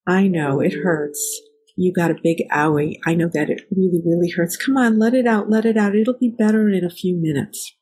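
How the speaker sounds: put-on gently coaxing a hurt child, rising a little on let it out; a light demo of comforting a toddler; soothing parent. Shown as a demonstration. Mom comforting her child who fell off the swings, soothing. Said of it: "the right response is".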